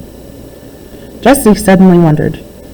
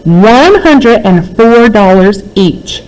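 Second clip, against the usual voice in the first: shout; 4 semitones higher, much slower than usual. Acted. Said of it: "shouted Jessie".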